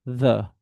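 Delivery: THE with tongue between the teeth; light dental TH in THE, no D; corrected light TH. Shown as a demonstration. Teacher has students try it, light TH. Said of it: "just try to pronounce the".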